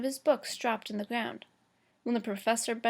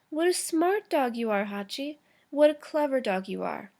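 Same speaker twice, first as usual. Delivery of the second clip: put-on baby talk; 2 semitones higher, 4 dB louder than usual. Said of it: "in a high-pitched voice, as though he were talking to a baby".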